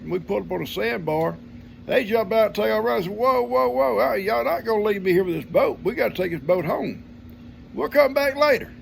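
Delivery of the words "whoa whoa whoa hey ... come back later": high, loud protest; loud alarmed whoa, hey; calling them back. Retold or imitated. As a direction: stop them in their tracks, loud and high. Dad stopping sons leaving.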